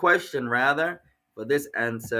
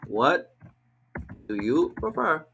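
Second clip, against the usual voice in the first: 1 slow model; 2 semitones higher, slower than usual. Shown as a demonstration. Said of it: "A possible answer or possible question would be".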